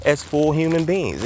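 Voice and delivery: slightly winded while walking; out of breath. Real, not acted. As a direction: talk while walking briskly. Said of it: "I sound like I'm out of breath".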